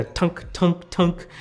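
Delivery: short spoken "tunk" taps; imitated tapping noise. Reviewer mimicking the Apple Pencil on bare glass, imitated tapping. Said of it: "you just hear, like, the".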